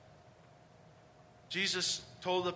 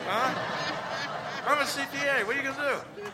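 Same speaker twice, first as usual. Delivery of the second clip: mock incredulous; 8 semitones higher, 5 dB louder than usual. Mocking reaction to being CPA.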